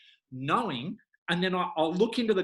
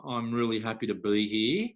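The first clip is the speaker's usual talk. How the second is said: lower, flat "I'm really happy to be here" from a slumped posture; slouched and deflated; 5 semitones lower than usual. Retold or imitated. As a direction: say "happy" while hunched over, no lift at all. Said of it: "really slouch".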